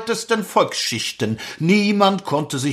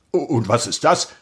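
clipped nasal officer; 6 semitones lower, faster than usual. Acted. Lieutenant questions.

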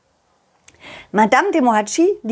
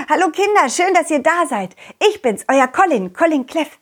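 silly clown; 5 semitones higher than usual. Acted. Clown greets the children.

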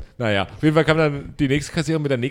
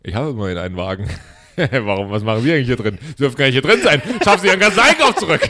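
building to a loud laughing retort; imagined comeback; 5 dB louder than usual. Retold or imitated. Imagined annoyed customer snapping back, building louder. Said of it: "den Megakonter gebracht".

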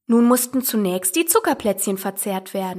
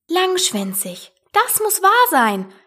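slow echo rising into a high exclamation; marvel, stretching the words out; exclaimed; 8 semitones higher, slower than usual. A narrator's reading. Alice struck by the mouse's long tail, exclaiming. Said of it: "rief Alice".

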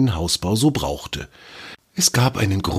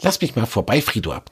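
higher, smiling spider voice, playful; amused; 4 semitones higher, faster than usual. Acted. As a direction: say it with a knowing smile. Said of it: "sagte schmunzelnd".

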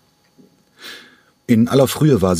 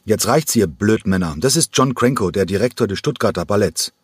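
erbost; 3 semitones higher than usual. Acted. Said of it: "Erbost kam er".

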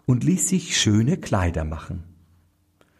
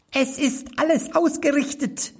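much higher, small goblin voice; little black manikin. A narrator's reading. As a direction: pipe it up like a tiny magic servant. (hohe, kleine Koboldstimme)

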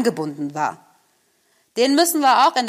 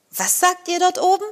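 put-on higher girl voice calling up; Gerda calling; 10 semitones higher than usual. Gerda calls up to the doves in a higher voice. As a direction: call up to the doves. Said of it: "rief Gerda".

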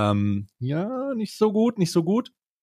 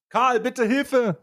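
strained, higher, slow plea; croaking for help while choking; choked plea; 10 semitones higher, much slower than usual. Real, not acted. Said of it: "ich hab mich verschluckt". (gequält nach Hilfe rufen)

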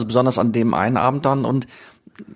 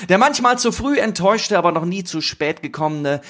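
announcer voice; 2 semitones higher, slower than usual. Pretend. Grand mock announcer introduction.

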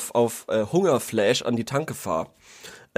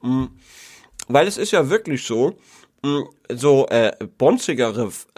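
chewing between words; mouth full. Real, not acted. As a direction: talk through a mouthful. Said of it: "ich esse grad ein Duplo".

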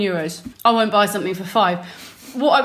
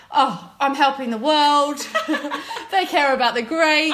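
mock naive; 5 semitones higher than usual. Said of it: "I thought".

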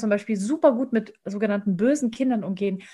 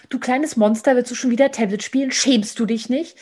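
mild mock scolding; 2 semitones higher, 5 dB louder than usual. Shown as a demonstration. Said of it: "indem ich sage".

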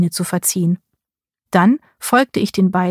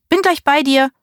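higher, called down from the window; calling out; 8 semitones higher than usual. A narrator's reading. Niece calls from the window to her aunt, calling out. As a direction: call down to reassure her. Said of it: "rief ich zu ihr".

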